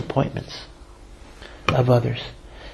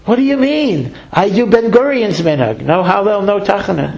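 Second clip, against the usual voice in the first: higher, a lightly played quick retort from the old rabbi; mock indignant rabbi; 6 semitones higher than usual. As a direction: toss it off as if it were obvious. Rabbi's comeback in a joke.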